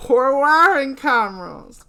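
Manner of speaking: laughing, high, loud, slow; laughing stoner. Acted. Stoned friend laughing at the joke. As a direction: giggle through the joke.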